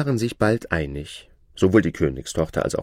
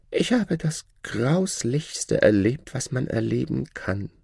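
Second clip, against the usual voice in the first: mock-distressed shadow; 5 semitones higher than usual. The Shadow feigning shock to the princess, hammed-up high voice. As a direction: pretend to be shaken.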